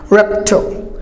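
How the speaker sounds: reptile as REP-tl; reptile, second syllable swallowed; American cut sound. Shown as a demonstration. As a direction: say reptile with a short schwa ending. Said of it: "Cut sound means a sound".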